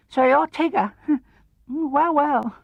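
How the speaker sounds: feigned nonchalance from a nervous piglet; careless. A narrator's reading. Piglet, feeling braver beside Pooh, acts casual. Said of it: "in a careless sort of voice".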